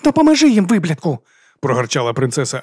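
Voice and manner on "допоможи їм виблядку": high, loud furious order; furious command. A narrator's reading. Princess ordering the sorcerer, high loud fury. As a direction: bark the order at him.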